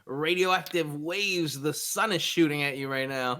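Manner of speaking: morning show host. Acted. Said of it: "Why do you sound like a morning show".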